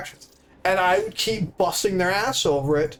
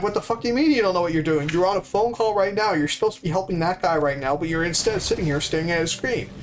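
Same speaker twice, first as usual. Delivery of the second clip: rapid-fire retold scolding; mildly worked-up, incredulous telling-off; retold angry chewing-out; faster than usual. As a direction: reenact an irritated dressing-down. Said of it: "until I got angry and angry".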